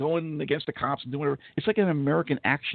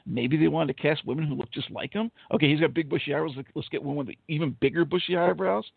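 ordinary talk

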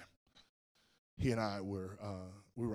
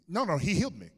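loud, high retold interruption; insistent correction; 7 semitones higher, 10 dB louder than usual. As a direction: override the hedging, voice jumping up. Insisting again over doctor's hedging.

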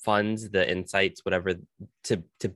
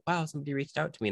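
excited; 7 semitones higher, 4 dB quieter, much faster than usual. Retold or imitated. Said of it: "they were so excited".

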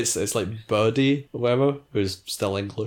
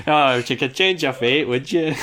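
a louder, higher, hammed-up trailer line; mock misremembered quote; 5 semitones higher, 5 dB louder than usual. Host mocking fans who misremember the trailer, hammed-up louder and higher. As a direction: lampoon fans confidently misquoting the trailer. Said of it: "everyone's like".

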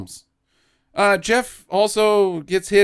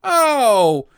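mock innocent child; 6 semitones higher than usual. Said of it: "And he's like".

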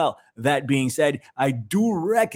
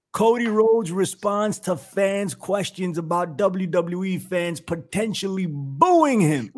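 headline read; 5 semitones higher, slower than usual. Shown as a demonstration. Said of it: "Let's read it again".

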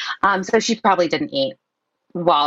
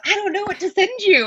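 much higher, exasperated dispatcher; mock confused dispatcher; 13 semitones higher than usual. Dispatcher unsure what to send, in a high baffled mock voice.

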